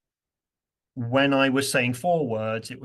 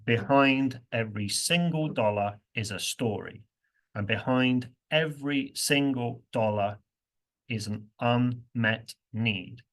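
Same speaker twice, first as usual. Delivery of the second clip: "every single" stressed syllable by syllable, slowing on "unmet need". Shown as a demonstration. Teacher reading the budget speech with heavy stress, slow. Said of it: "she'll stress multiple syllables".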